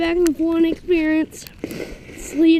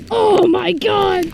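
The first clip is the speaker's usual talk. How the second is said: louder thrilled exclamation; excited; 6 dB louder than usual. Real, not acted. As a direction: burst out amazed. After sled run.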